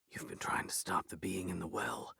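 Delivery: soft whisper. A narrator's reading. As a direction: whisper it urgently. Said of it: "I whispered".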